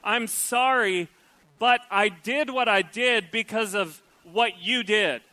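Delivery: slow, drawn-out grudging sorry; sorry that blames back; mock apology. Preacher mimicking a blame-shifting apologizer, grudging. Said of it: "they say something like this".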